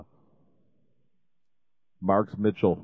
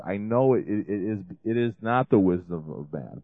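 normal talking voice

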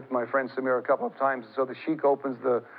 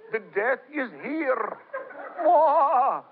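mock evil laugh; 12 semitones higher, much slower than usual. The speaker imitating the sheikh at the funeral, high hammed-up cackle. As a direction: ham up the spooky sheikh. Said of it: "and he does that".

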